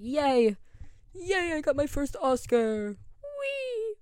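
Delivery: high, loud squeal of delight, stretched out; squealing with joy. Pretend. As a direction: shriek like a kid who just won. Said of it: "And I'll be like".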